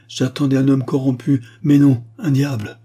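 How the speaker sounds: high, loud denunciation; horrified outcry. A narrator's reading. Marquise recoils from the count, crying out. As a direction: denounce him in agitated outrage. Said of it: "s'écria-t-elle".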